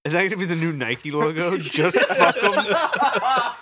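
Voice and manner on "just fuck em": slow slogan voice. Acted.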